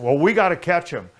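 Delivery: urging to chase after him; excited retold hurry; eager urgency. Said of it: "chase driver eager to go".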